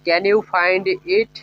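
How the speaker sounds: each word spoken slowly and clearly for learners; teacher modelling a question slowly; slow, careful English. Shown as a demonstration. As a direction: lay out every word so students can copy it. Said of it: "এইভাবে।".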